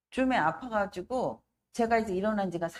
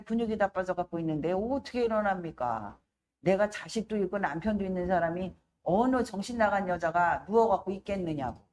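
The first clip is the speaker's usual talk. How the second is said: silent exasperation. Retold or imitated. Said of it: "속으로만 그러는 거예요".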